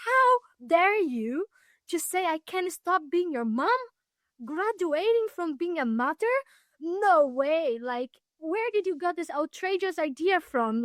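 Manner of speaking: high, indignant mother's voice, imitated; mock her shocked fury; outraged mother. Mother outraged at her daughter's graduation idea, high mock anger. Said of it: "this woman got so angry".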